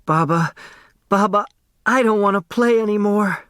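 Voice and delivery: put-on a child running to comfort, near tears; sobbing plea. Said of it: "A sob tore through Turtle's soul".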